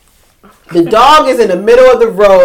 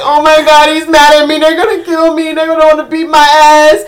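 higher, fretful retold dread; a touch of panic, pitched up; mild mock panic; 4 semitones higher than usual. Retold panic after owner hung up.

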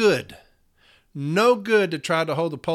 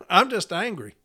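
laughing; 2 semitones higher than usual. Real, not acted. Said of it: "I don't know if you can tell".

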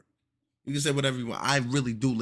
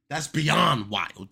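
stunned outburst; 5 semitones higher, 9 dB louder, much slower than usual. Acted. Escalating disbelief.

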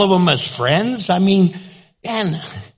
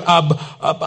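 flustered stammer; 3 semitones lower, faster than usual. Retold or imitated. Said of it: "She was going".

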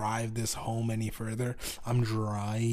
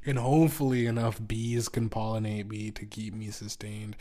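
ordinary delivery

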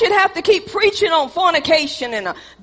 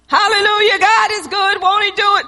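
hammed-up praise; 3 semitones higher than usual. Pastor's showy praise.

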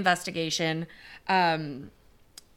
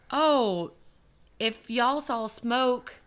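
lightly put-on accent, not really French; a bad stab at a French accent, slowed and drawn out; failed French accent; 4 semitones higher than usual. Officials reassuring the French public, in a botched French accent. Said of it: "that's a, not a French accent".

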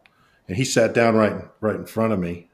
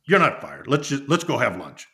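higher-pitched retold climb-down; relenting boss; 5 semitones higher than usual. Boss taking back the firing, retold as a brisk dismissal. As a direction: lift the pitch as if waving it all away.

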